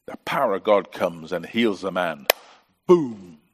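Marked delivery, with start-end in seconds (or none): 2.9-3.4 loud exclamation. Acted. Preacher exclaiming God's healing power with a loud burst. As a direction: burst it out, much louder.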